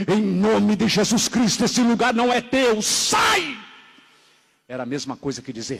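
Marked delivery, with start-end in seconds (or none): 0.1-3.5 commanding exorcism cry, rising to a high final word. Retold or imitated. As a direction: cast it out, slowly building to a shout. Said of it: "E eles clamaram".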